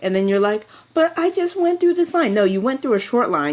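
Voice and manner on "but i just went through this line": mock whiny complaint. Mocking confused rider.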